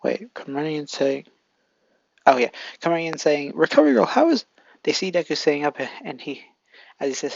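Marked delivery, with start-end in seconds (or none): 3.5-4.4 high, loud eager call; excited calling out. Acted. Classmates rushing into the infirmary, high excited call. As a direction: burst in calling her name, pitched way up.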